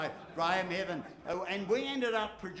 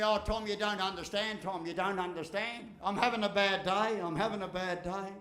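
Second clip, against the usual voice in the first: whining complainer; 3 dB louder than usual. Retold or imitated. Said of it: "people say to me".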